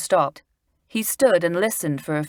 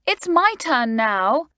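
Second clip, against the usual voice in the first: bellowing; 8 semitones higher, 3 dB louder, slower than usual. A narrator's reading. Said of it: "bellowed out Lucy".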